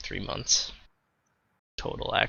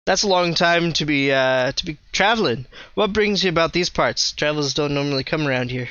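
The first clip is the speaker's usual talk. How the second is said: put-on a light, accidental southern accent. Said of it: "Now I'm speaking with a southern accent".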